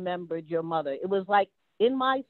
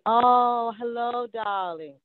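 imitated kindly mother, long swelling "oh" easing softer; kind, mellow greeting; 3 semitones higher, 4 dB louder, slower than usual. Visitor imitating Abigail's mother greeting a stranger, kind and mellow. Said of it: "so kind and so soft and so mellow".

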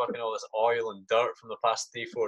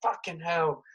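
much softer, slow, high muttered curses; a shaken soldier cursing under his breath; muttered swearing; 6 semitones higher, 7 dB quieter, slower than usual. Retold or imitated. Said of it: "we've got one guy just like".

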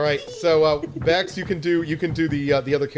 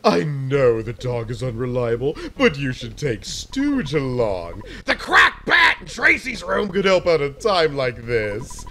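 cheering mom voice. Acted. Mom's send-off speech.

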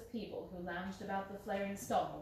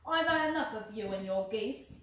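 a louder angry shout; 4 dB louder than usual. Acted. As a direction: yell him off at the stall. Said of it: "he shouted".

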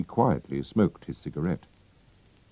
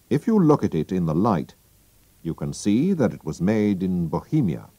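higher, confident detective explaining; Holmes voice; 3 semitones higher than usual. Acted. Holmes explaining the Bohemian paper to Watson, assured.

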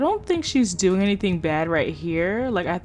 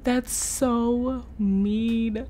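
shocked; 2 semitones higher, much slower than usual. Real, not acted.

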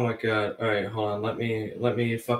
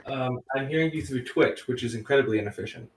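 from another room. Real, not acted. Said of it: "you sound like you're in another room".

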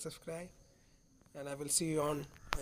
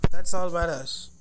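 louder, punching "That's"; frustrated shout; 8 dB louder than usual. Real, not acted. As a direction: blurt it out in real frustration, hitting "That's". Frustrated gamer repeats it louder.

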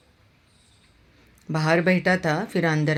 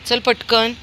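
चल पटकन pitched higher and louder, pressing; urgent hurry; 7 semitones higher, 5 dB louder, slower than usual. Real, not acted. Owner urging the dog again, higher and louder. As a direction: repeat it with more urgency. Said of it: "वीर, पप्पा आले".

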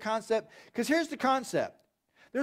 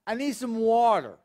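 whining. Retold or imitated. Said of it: "people whining that they're".

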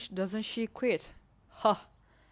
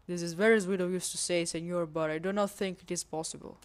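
mock Spanish accent. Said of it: "for my bad accent".

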